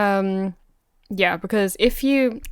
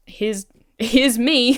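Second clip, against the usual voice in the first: laughing offer; 3 semitones higher, 3 dB louder, much slower than usual. Retold or imitated. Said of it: "to just be like".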